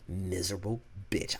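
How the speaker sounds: breathy hissed whisper; retold whispered put-down; whispered insult. Mom insulting the coworker.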